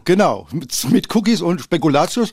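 talking while chewing cookies; mouth full. Real, not acted. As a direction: speak through a mouthful. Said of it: "Mit vollem Munde reden".

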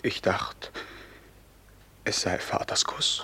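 moved whisper. Acted. Son answering his father, whispering. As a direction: hold back tears in a whisper. Son's emotional reply.

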